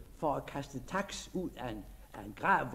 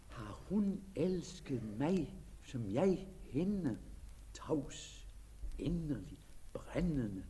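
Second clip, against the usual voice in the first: hushed longing; 7 dB quieter, slower than usual. Acted.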